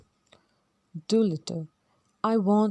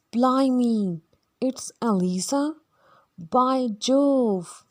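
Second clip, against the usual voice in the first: louder, higher cry of surprise; stunned exclamation; 5 semitones higher, 5 dB louder, much slower than usual. Acted. Higgins, Doolittle and Pickering suddenly recognise Eliza, exclaiming loudly. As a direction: blurt it out in loud disbelief.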